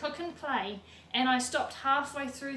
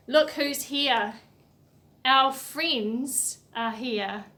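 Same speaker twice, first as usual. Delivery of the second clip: excited reveal; 6 dB louder, much slower than usual. Acted. Reveals the book's characters.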